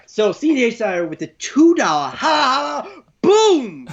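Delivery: slow, high, hammed-up hype call; hype holla shoutout. Host hypes a donor's super chat, slow and high. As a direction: stretch it out high like a wrestling hype man. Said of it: "Do it".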